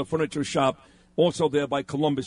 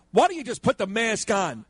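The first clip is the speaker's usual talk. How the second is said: mild mock yell, pitched up; mock yelling lady; 5 semitones higher than usual. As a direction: imitate a nagging stranger calling you out. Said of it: "some yelling lady".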